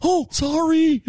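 high, slow mock apology; sheepish dad. Son imitating dad apologizing for interrupting. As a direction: play the old man caught out.

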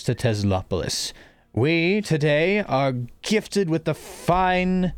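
booming mayor over a loudspeaker; magically amplified voice. Acted. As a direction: address the whole square like a mayor. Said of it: "you hear a loud voice".

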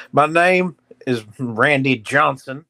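slow, drawn-out ballplayer impression; a light, deliberate celebrity impression; Randy Johnson. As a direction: introduce yourself slowly, lightly in character. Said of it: "He still talks like this".

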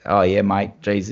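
lightly put-on broad Australian bloke; a hint of Crocodile Dundee Australian; classic Australian. Mimicking miners at the wedding in mild broad Australian. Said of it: "your classic Australian".

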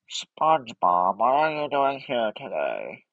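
a hint of a fed-up Squidward; Squidward impression. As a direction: grumble like a put-upon neighbour. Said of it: "I can do Squidward".

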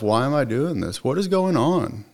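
retold frustration, pitch climbing sharply at the end; bewildered self-questioning. Man questioning himself on the way to jail, bewildered.

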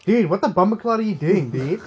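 mock American cyclist; American accent. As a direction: put on an American dude accent. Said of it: "and he was American".

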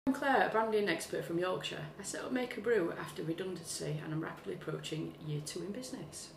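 posh Sunday telephone voice. Shown as a demonstration. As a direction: put on your best professional phone manner. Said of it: "her Sunday telephone voice".

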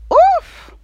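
a high, loud, delighted oof; excited oof. Real, not acted. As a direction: let the lyric hit you, oof. Reacting to favourite lyrics.

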